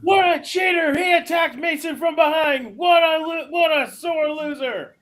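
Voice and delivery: high, loud ringside outrage; indignant heckle, drawn out at the end; outraged onlooker. Acted. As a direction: call it out like a scandalized wrestling commentator. Mock commentator outrage at the attack.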